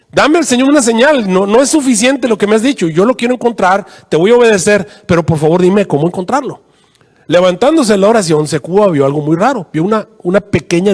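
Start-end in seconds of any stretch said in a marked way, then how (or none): 0.1-6.6 earnest high-pitched appeal; pleading prayer. Retold or imitated. Secuba begs the Lord for a sign, pleading. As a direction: implore God as in an acted prayer. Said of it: "cayó de rodillas y comenzó a orar".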